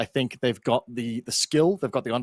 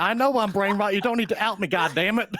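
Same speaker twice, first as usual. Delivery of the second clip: put-on scolding of the crew; mock outrage; 5 semitones higher than usual. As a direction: play indignant in a silly voice. Mock scolding production in accent.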